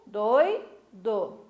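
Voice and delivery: "doi, do" as two separate beats, oi kept together; split into syllables. Shown as a demonstration. Teacher showing the diphthong to pupils, "doi, do" syllable by syllable. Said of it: "Ficou junto, duas vogais na mesma sílaba".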